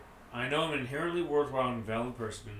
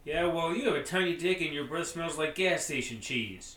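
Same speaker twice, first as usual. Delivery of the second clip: shouted insult; 4 semitones higher, 5 dB louder than usual. Acted. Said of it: "screams at the walking away Dan".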